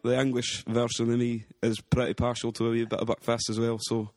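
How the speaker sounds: light put-on Scottish accent, rolling the r's; casual chat in a hammed-up Scottish accent. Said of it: "a Scottish accent".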